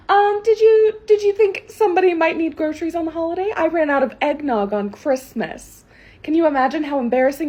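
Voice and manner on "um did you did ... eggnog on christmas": louder, higher disbelieving scold; entitled indignation. Acted. Karen scolding the grocery clerk for closing on the holiday, indignant and louder. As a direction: talk down to the clerk as if they're stupid.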